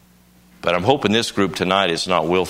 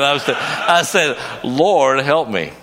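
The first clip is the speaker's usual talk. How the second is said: higher and louder, a desperate cry for help; desperate plea; 7 semitones higher, 4 dB louder, slower than usual. Retold or imitated. Preacher caught in the current, crying out desperately. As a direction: plead like you're drowning. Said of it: "I was not laughing then".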